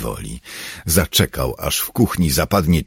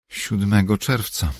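Star speaking; 7 semitones higher than usual. A narrator's reading. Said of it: "powiedziała po chwili".

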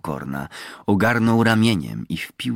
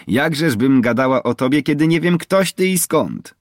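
high, louder teasing question; sly teasing; 8 semitones higher, 6 dB louder than usual. A narrator's reading. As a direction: pitch it up, slyly coaxing. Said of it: "zaśmiała się chytrze". (chytre przekomarzanie się, wysoko i głośniej)

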